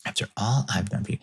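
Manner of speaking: quick, light mock guilt trip; playful fast after all I've done for you; lighthearted. Shown as a demonstration. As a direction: toss it off quick and teasing. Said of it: "I kinda say that in a very, like, lighthearted way".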